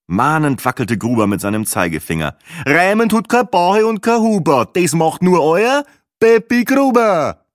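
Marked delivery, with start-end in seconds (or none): 2.7-7.5 high, emphatic singsong couplet; admonishing rhymester. Acted. Gruber warns Bahe that rhyming is his job, admonishing singsong. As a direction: declaim it as a proud warning, pitched up.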